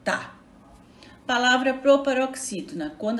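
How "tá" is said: "Tá" said alone as one short syllable; isolated stressed syllable. Shown as a demonstration. Teacher answering where the stress is, "Tá" as a lone syllable. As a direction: pick out "Tá" by itself after a pause. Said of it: "A sílaba tônica".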